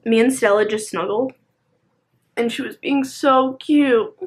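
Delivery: talking with hiccups; hiccuping between words. Real, not acted. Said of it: "I have the hiccups now".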